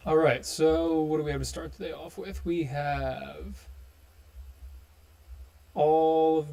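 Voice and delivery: congested, tube-like voice; muffled as if through a tube. Real, not acted. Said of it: "it sounds like I'm talking through a tube".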